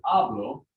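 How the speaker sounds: "hablo" stressed up front, HA-blo; stress on first syllable. Shown as a demonstration. Teacher contrasting almost the same word, stress on first syllable. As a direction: punch the HA of "hablo", let blo drop. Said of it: "what's getting the accent".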